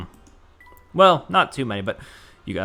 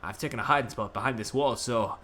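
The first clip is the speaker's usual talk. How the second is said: put-on lightly done Scottish accent for a worried man; faster than usual. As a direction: read it as a nervous Scot. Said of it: "Is he doing a Scottish bit?".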